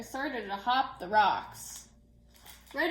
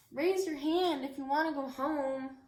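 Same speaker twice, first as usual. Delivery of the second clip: mock yell; 3 semitones higher than usual. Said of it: "I yelled".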